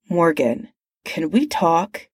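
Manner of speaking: tight, restrained irritation; said tightly. Acted. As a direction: hold back annoyance, clipped and tense. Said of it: "he said tightly".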